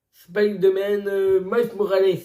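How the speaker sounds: name pronounced with an attempted English accent; French speaker's English accent. Real, not acted. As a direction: put on your English accent for the title. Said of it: "avec mon accent anglais".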